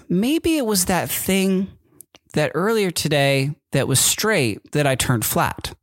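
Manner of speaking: put-on slightly high, slow kid voice; lightly voiced little boy explaining; child voice. Dad imitating his son explaining the valve, lightly childlike.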